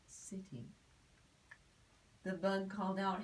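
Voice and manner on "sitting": breathy whispered word. A narrator's reading. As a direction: drop to a whisper for the bug. Story reading, hushed word.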